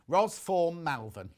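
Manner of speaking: "form" said in place of "from"; misspelling read literally. Real, not acted. Presenter reading out a viewer's typo, deliberate "form". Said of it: "they've spelt from wrong".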